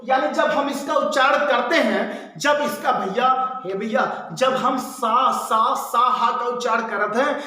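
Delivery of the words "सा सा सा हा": "सा, सा, सा, हा" sounded out one by one with breath; hot-air consonant demo. Shown as a demonstration. Teacher shows students the warm-air consonants, breath-released demo. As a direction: let air out on each of "सा, सा, सा, हा". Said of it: "हमारे मुख से एक गरम हवा निकलत है".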